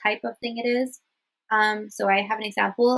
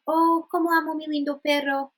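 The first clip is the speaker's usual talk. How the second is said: higher, gushing over "lindo"; gushing emphasis; 6 semitones higher than usual. Shown as a demonstration. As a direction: pitch held up, stressing "lindo". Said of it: "So here we're emphasizing".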